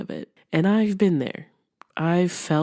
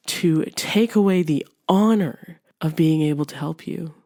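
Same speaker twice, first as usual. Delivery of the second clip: retold anger. Friend scolding friend who hid problems, indignant. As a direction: scold the friend for being selfish. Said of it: "And he was pissed".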